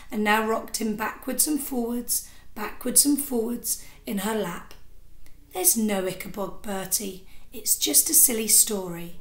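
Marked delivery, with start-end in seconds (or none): 5.5-9.2 soothing mother. Acted. Mother soothing frightened son.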